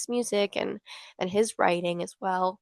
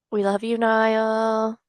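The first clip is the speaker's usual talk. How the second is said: slow, louder fan call; calling out to a singer; 2 semitones higher, 5 dB louder, slower than usual. Pretend. Fan calling out her love to a singer as if at a concert. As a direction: shout your love like from the crowd.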